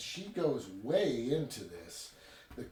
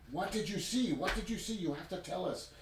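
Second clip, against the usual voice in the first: imitated yelling; 6 semitones higher than usual. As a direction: press him urgently in a raised, high voice. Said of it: "everybody's yelling at him".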